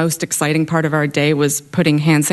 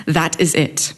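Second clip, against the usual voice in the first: put-on stern British accent. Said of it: "in her stern British accent".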